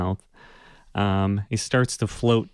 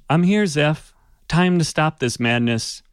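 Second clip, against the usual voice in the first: louder, firmer figure voice; calm hooded figure; 6 semitones higher, 4 dB louder than usual. Acted. The hooded figure confronts Zeph, firm and raised. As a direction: end the madness with resolve. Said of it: "and says".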